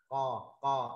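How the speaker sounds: "co" made thick in the throat; weight the sound of "co", heavy and back. Shown as a demonstration. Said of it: "đọc dày lên". ("co" đọc dày trong cổ họng)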